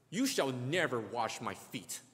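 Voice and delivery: slow, firm refusal; slow, bold refusal; stress on never. Retold or imitated. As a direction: dig in on "never". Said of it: "Peter says".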